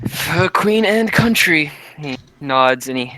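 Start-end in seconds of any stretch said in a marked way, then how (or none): 0.1-1.7 slow, raised toast voice; solemn toast. Acted. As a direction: lift the glass and declaim it slowly. Toast in character.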